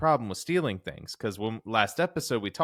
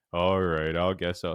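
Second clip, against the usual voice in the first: dopey Armstrong; 4 semitones lower than usual. Retold or imitated. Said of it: "This is what I imagine him sound like".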